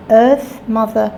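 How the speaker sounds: ordinary talk, nothing marked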